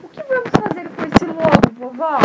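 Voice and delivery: put-on high child's question; curious little girl. Red Riding Hood asking grandma about the wolf, high. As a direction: ask what to do next. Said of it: "a Chapeuzinho falou assim".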